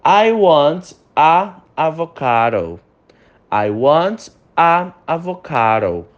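slow, careful English drill read; slow model reading. Shown as a demonstration. Teacher reading a sentence slowly for repetition. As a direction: read it slowly for students to repeat. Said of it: "repete em voz alta".

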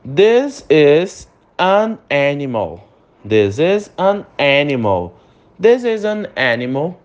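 slow drill stressing "An" before animal; slow model reading. Shown as a demonstration. Teacher modelling an example slowly for students. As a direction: read slowly for repetition. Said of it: "exemplos só com an".

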